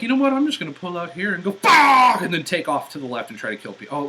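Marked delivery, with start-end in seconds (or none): 0.0-2.2 mock driver shout. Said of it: "So he's like".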